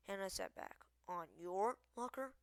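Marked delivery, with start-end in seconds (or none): 1.1-2.3 loud, surprised echo; taken aback, louder; incredulous question. A narrator's reading. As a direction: query it in raised disbelief. Character surprised by the news.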